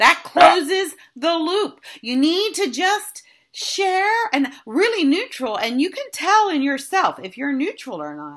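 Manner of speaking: loud, slow, worked-up ranting delivery.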